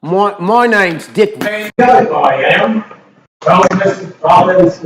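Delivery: loud, badly faked Cockney accent; Dick Van Dyke. Mocking a film actor's accent, fake exaggerated Cockney. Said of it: "it was a straight fake".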